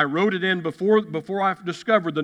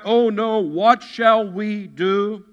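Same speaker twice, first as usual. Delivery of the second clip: raised, slow, drawn-out mock wail; mock panic; 4 semitones higher, 5 dB louder, slower than usual. Listener facing something too big, crying out in mock panic. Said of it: "do you cry out".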